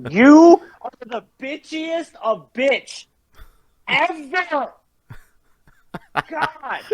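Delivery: high-pitched livid rant after being killed; exasperated, outraged ranting pitched high; real raging. Real, not acted. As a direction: vent your fury at the gamer who killed you. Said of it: "Cactus is raging".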